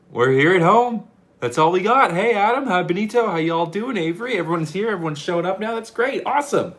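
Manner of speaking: high, loud, upbeat hellos; excited greeting. Real, not acted. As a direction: welcome everyone with high energy. Greeting viewers joining the stream.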